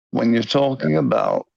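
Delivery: rough Liverpool accent through the nose; half-successful Liverpudlian accent from nose and throat; attempted Liverpudlian accent. Shown as a demonstration. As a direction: demonstrate a nasal Scouse accent, imperfectly. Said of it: "I'm not doing a good job of it right now".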